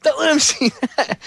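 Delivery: high, strained producer panicking off camera; hurried high-pitched comic yelp; Sam Kinison. Retold or imitated. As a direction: imitate a frantic comedian barking orders. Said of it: "Like Sam Kinison used to joke about".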